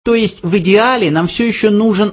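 high little mouse voice; insistent mouse. A narrator's reading. Mouse still wants the question, high voice. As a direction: spell it out, pitched high.

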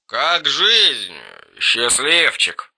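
put-on slurred drunk voice, quiet; drunk slurring. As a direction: slur it like a drunk friend. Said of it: "заплетающимся голосом".

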